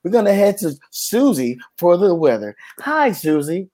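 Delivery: lightly voiced cheesy radio host; breezy DJ patter, lightly hammed; mock radio host. Mocking a radio host's chatty weather handoff.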